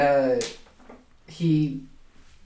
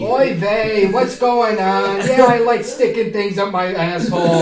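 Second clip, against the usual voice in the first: put-on old man with a Yiddish accent, lightly done; 3 semitones higher, 3 dB louder than usual. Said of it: "with the old man Jewish voice".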